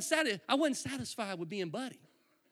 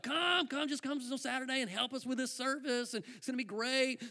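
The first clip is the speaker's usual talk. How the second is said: higher-pitched mock coaxing; imitating an eager, cajoling invitation; friendly coaxing; 5 semitones higher, 3 dB quieter than usual. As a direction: sweet-talk a friend into helping. Friends coaxing him, retold.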